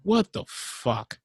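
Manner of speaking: breaking up over a bad connection; words dropping out mid-line; choppy cut off endings. Real, not acted. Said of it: "you're cutting out again".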